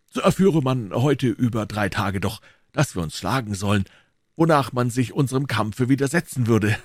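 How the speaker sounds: amused, dignified swordsman; a hint of a proud musketeer; Athos. Athos voiced in read story.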